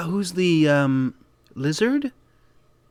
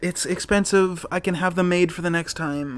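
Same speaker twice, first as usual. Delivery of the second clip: pleading host; 6 semitones higher than usual. Acted. Host begging a guest not to damage the chairs, mock pleading.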